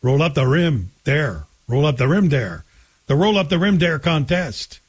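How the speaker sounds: light Quebec French accent; lightly imitated Quebec accent. Shown as a demonstration. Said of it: "with a Quebec accent".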